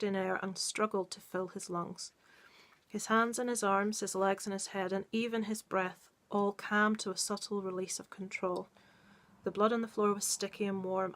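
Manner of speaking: measured read-aloud of a dark tale; story narration. Acted. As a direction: read it steadily, letting the tension build. Reads short story aloud.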